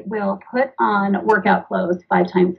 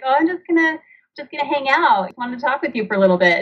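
higher, light and breezy, then fast; casual mom; 4 semitones higher, faster than usual. Retold or imitated. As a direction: play it casual, like it's no big deal. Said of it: "And I was like".

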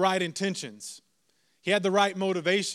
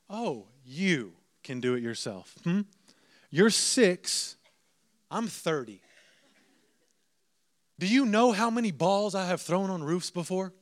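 mock indignation. Dad silently answers his six-year-old son, mock indignant. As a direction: react with hammed-up disbelief, pausing between jabs. Dad's indignant thought at son's boast.

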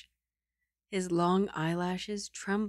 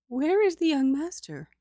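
higher and louder lady of the house; the mother asking for her son, higher and louder; imperious madam; 8 semitones higher, 4 dB louder than usual. Acted. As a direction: demand it like the mistress of the house. Liang Shi asks for her son.

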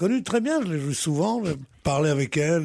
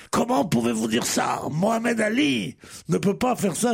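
higher, retold indignant protest; indignation rapportée; 4 semitones higher, slower than usual. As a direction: imitate someone's offended objection, pitched up. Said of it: "et Laurel dit". (indignation imitée, voix plus haute)

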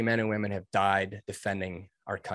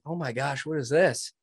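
retold amazement; 4 semitones higher than usual. Amazed student reacting to cheering instructors.

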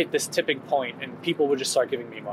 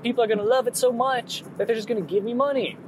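naive dreamer voice; 7 semitones higher than usual. Retold or imitated. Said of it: "I was like".

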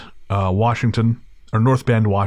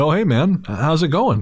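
higher, casual retold greeting; feigned familiarity; 6 semitones higher than usual. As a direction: play along as if you know him. Bluffing familiarity with stranger.

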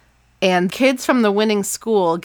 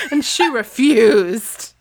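mock outrage; 3 semitones higher, 3 dB louder, much slower than usual. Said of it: "mocking Courtney".

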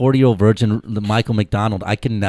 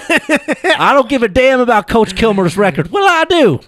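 hammed-up angry father; 11 semitones higher, 4 dB louder than usual. Voicing Billy Bob's dad.

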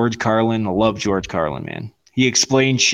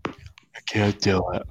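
mock whining; slower than usual. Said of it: "everyone's like".

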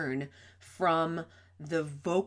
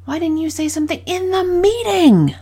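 exasperated high stress on "meeting"; 10 semitones higher, 13 dB louder than usual. Shown as a demonstration. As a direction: pitch up and hold on "meeting". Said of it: "six different ways I said the same question".

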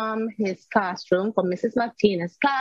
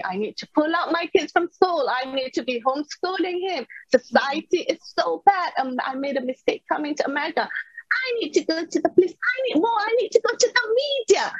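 higher and faster, spiralling as the panic builds; panicked rush of thoughts; 6 semitones higher, faster than usual. Retold or imitated. Mother reliving her panic after the insult, rising, rushed. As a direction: let the reliving of panic run away with you. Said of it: "a lot of emotions went through me".

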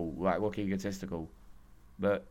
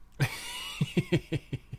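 breathy high laugh; 8 semitones higher than usual. Real, not acted. Laughing at own failed impression.

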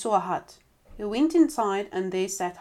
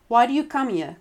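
louder, slightly higher challenge; mild indignant cry; 4 semitones higher, 6 dB louder than usual. A narrator's reading. Rich wife to poor brother-in-law at the door, mild cry. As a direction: cry out at an unwelcome visitor, lightly acted. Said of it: "cried the rich w-, man's wife".

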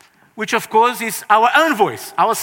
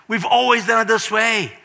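complaining to Jesus; 4 semitones higher than usual. Retold or imitated. Acting complaining self to Jesus.

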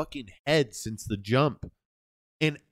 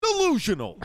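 hammed-up Jersey Shore take; mock Paulie yell; 14 semitones higher than usual. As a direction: scream it like a reality star. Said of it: "Take forty-two".

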